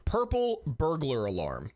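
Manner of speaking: slow, lightly put-on Scottish accent; mock Scottish accent. Streamer teasing a Scottish video maker, mock Scottish accent. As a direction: tease with a drawn-out Scottish accent. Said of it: "He's Scottish".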